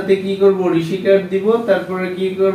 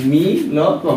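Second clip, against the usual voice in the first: মি ল ক, each part said apart with small gaps; মি ল ক spelled out piece by piece like a teacher; split into syllables. Shown as a demonstration. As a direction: break মি ল ক into its pieces for the student. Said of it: "মিল্ক উচ্চারণ".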